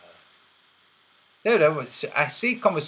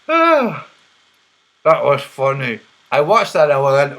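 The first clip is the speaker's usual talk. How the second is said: ordinary talk, nothing marked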